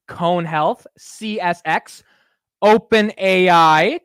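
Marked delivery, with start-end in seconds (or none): 2.6-4.0 pitch lifts on the name. Real, not acted. Stock vlogger reading the customer list, lifting on Open A I. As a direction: Open A I said slower, louder and a bit higher. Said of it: "I might have had a little bit of inflection in my voice".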